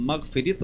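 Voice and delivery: मग़फ़िरत said as "magh-fi-rit", last vowel "i"; mispronunciation. Shown as a demonstration. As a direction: end मग़फ़िरत in "-rit" instead of "-rat". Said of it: "गलत पढ़ देते हैं". (मग़फ़िरत को ग़लती से "मग़फ़िरित" बोलते हुए)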